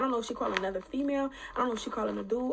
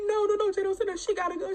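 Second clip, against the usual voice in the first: imitating her; 8 semitones higher than usual. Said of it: "She like".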